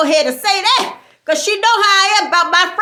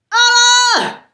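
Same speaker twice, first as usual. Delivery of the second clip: shocked outcry; 5 semitones higher, 6 dB louder than usual. Real, not acted. Shocked reaction to reveal.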